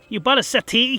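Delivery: high, loud bewildered question; can't make sense of it; baffled surprise. Acted. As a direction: Rune mishearing the news, high and baffled. Rune mishears, baffled.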